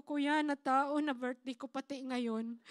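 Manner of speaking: slow, moved voice close to tears; slow tearful gratitude; retold tearful thanks. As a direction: thank him as if still choked up. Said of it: "Tapos umiyak ako".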